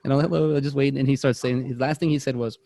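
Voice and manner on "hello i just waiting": a chatty little greeting; friendly grandmother. Retold or imitated. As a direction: lightly imitate a friendly grandmother. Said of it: "all friendly, talking to me".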